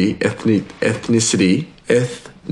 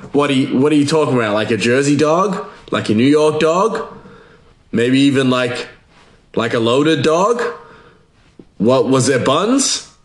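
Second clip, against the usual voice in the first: higher-pitched puzzled questions, each lilting up; mock confusion; 4 semitones higher than usual. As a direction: play the baffled listener grasping for sense. Acted listener questioning the rumour.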